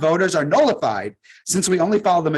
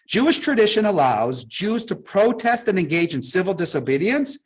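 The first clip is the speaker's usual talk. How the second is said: slow reading. Shown as a demonstration. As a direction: read it out slowly, word by word. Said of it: "I'm gonna read this sentence slowly".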